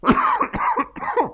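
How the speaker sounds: very high shriek of laughter. Real, not acted. Host shrieking with laughter at Claude's comment.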